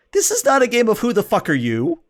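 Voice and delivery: high, loud enraged yell; furious shriek. Acted. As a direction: scream the insult at him. Clark screaming.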